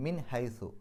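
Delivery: മിൻ ഹൈസു with the n pronounced clearly before h; clear izhar. Shown as a demonstration. Teacher demonstrating izhar. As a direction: sound the n of മിൻ cleanly. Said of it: "വെളിവാക്കി പറയുക".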